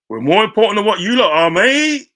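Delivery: loud, high triumphant yell; gloating shout. Real, not acted. Gloating to Spurs fans about being bigger, loud triumphant shout. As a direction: crow it over the rival club.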